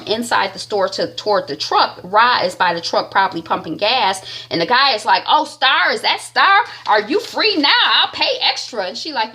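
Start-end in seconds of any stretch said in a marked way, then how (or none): 5.3-8.9 high-pitched imitation of an eager customer; mock eager recognition. Customer hailing Star at the gas station, mock eager. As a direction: lightly act out spotting someone you know.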